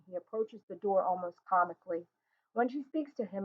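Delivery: usual speaking voice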